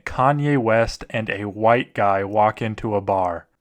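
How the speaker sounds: slow, hushed horror narration; mock-serious scary story read. Reads horror stories aloud.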